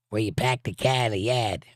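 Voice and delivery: lightly faked Boston accent with dropped r's; attempted Boston accent. Shown as a demonstration. Southerner trying a hard accent, rough Boston accent. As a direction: have a half-successful go at a Boston accent. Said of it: "That's a hard accent to pull off".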